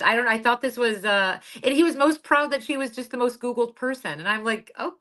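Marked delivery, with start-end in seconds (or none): 4.8-4.9 slow, higher, hesitant okay; uneasy acceptance. Retold or imitated. Woman recalling her reaction to his boast, uneasy acceptance. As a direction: draw it out, higher and unsure.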